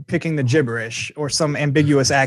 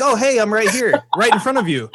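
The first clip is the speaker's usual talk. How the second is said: higher, playful mock phone voice; missionary on pamphlet phone; 7 semitones higher than usual. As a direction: tease from right in front. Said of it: "he's like".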